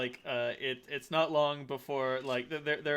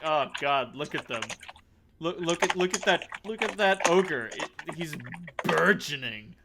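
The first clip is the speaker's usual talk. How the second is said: gawking guest; 3 semitones higher, 4 dB louder than usual. Acted. Guests gawk at the ogre.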